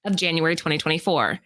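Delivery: even, presenter-style read; scripted list read. Acted. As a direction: read out the countdown entry to the audience. Reads prepared list segment.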